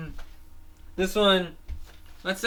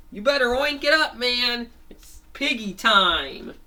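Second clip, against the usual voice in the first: high, louder hype, slowing on the last line; goofy pep-talk voice; hyped-up cheer; 7 semitones higher, 4 dB louder than usual. Acted. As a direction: pump up the crowd. Hyping the pig suit.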